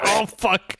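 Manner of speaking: a mock groaning oh fuck; boy waking up in the ambulance, dismayed; dazed dismay. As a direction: sound like you just woke up in an ambulance. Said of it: "he's like".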